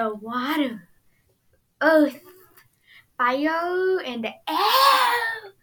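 slow, rising dramatic recital of the elements; intro narrator voice. Retold or imitated. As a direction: build it up like the show's opening narration.

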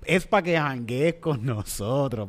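imitating a slow, soft reassurance; calming quote. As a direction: talk him down slowly and softly. Calma al pana que quiere treparse. (calmando al pana, despacio y suave)

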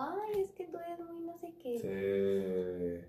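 very slow, lazy, dismissive whine; mocking dismissive coworker. Coworker brushing her off, in a very slow mocking drawl. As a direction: stretch it out, bored and condescending.

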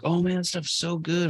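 high, put-on voice savoring cheap beer; mock beer drinker. Teasing a friend about loving cheap beer, high mock voice. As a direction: play a friend blissed out on beer. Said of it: "let you be like".

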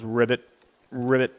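soft little frog ribbit, quietly voiced. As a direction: grandpa doing a small frog sound, softly. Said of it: "can you please make the sound of a frog".

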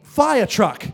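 gasp, then high, drawn-out amazement; shocked retold exclamation. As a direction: imitate her stunned outburst, stretching each word. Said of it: "like, stunned, shocked".

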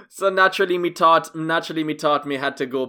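put-on Antiguan accent, lightly done; Caribbean accent. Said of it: "I'm trying to do a Caribbean accent".

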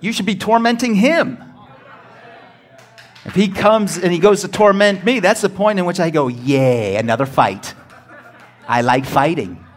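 loud, high, gleeful preaching; preacher roaring with joy at the crowd; fiery preaching. Real, not acted. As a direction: shout it like you love the fight. Preacher at full force, laughing.

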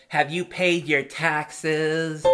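slow, drawn-out official demand; mock cop voice. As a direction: put on a bored cop voice. Mocking a cop asking.

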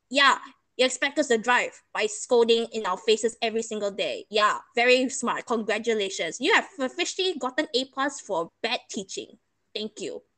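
dry mock congratulations; sarcastic. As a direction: praise the bad teacher with pointed sarcasm. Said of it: "This is my sarcasm in mode".

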